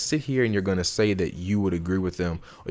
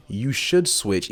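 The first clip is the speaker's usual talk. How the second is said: demanding tone; much slower than usual. Shown as a demonstration. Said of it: "even if you try to say it in a nice way".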